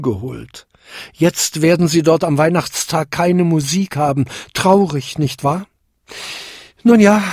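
leicht gespielter Bote, gegen Ende höher und lauter; beiläufig bedauernd, dann eilig verabschieden; munterer Himmelsbote. Acted. Himmelsbote überbringt schlechte Nachricht. (der Bote eilt fort, leichthin und etwas lauter)

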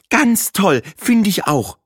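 high, smiling voice of approval; mild eager praise. A narrator's reading. Trixie backs up Bahe's praise, high and lightly eager. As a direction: praise it with a hopeful smile. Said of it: "lobte Trixie und lächelte erwartungsvoll".

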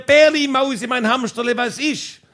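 wife calling pet names up to the roof; calling back. Retold or imitated. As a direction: call up sweetly to the roof. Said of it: "sie hat zurückgeschrien".

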